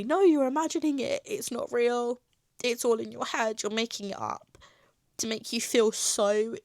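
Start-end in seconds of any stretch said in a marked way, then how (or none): 0.0-4.6 higher-pitched imitation of a doctor brushing you off; retold condescending dismissal; mock dismissiveness. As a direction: wave the patient away in a raised mimicking voice.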